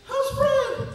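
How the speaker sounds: high, hammed-up eager question; eager asking. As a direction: ask after an old friend with mock excitement, very high. Retold eager question about the horse.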